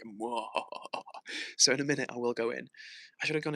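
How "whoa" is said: hammed-up villain "mwahaha"; drawn-out fake spooky laugh; mock horror cackle. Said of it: "I'm about to be like".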